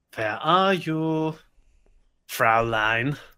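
exaggerated, slow, forced fake German accent. Doing a creepy doctor voice while playing, forced German accent. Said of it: "That was the most forced German accent I've ever heard".

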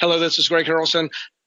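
very fast, rapid reading delivery. Showing a learner how to practise scripts, reading in a very fast manner. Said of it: "reading the scripts in a very fast manner".

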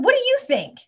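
furious, angry, pitched very high. Retelling what she asked the boy: retelling own angry question. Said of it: "I was so angry".

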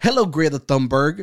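loud, heavily stressed, every word hit hard. Imitating how a tweeting celebrity talks: Andrew Tate impression, emphasizing words. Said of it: "so he's all like".

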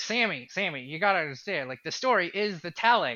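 nasal put-on voice. Quoting David Lynch speaking to his interviewer Sammy, nasal David Lynch impression. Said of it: "in his very nasally, distinct, lovable voice".

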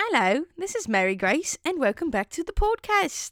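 mock elderly British lady accent. Opening the podcast for a British listener, in an old, depraved British woman voice. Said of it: "I actually sound like an old, depraved British woman".

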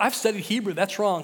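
plain

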